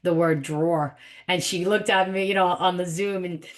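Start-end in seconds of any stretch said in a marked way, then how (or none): 0.4-1.0 put-on "drawer" in a New York accent. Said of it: "gave my New York accent away".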